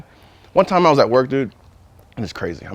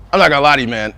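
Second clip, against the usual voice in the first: laughing confession; faster than usual. Retold or imitated.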